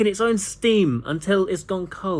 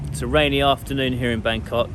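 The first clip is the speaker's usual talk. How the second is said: muffled through a mask; talking behind a face mask. Real, not acted. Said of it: "Forgive the mask".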